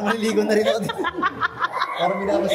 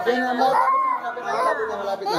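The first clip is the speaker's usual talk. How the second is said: higher, repeated coaxing; urgent reassurance; 13 semitones higher, faster than usual. Real, not acted. Parent telling son it's nearly over, urgent reassurance.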